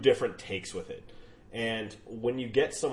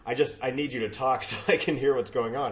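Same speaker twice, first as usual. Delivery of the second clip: louder, laughing coax; laughing insistence; 3 semitones higher, 7 dB louder than usual. Retold or imitated. Radio host coaxing a guest for mic levels, laughing. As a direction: push them to keep talking, through a laugh. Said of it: "And you go".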